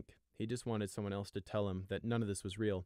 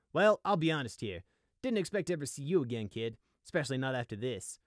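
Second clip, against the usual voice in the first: raised, loud, casual character voice; drawling griffin; 5 semitones higher, 5 dB louder than usual. A narrator's reading. Griffin surveys the ruins with the kid, drawling. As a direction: talk down to the kid, loud and easy.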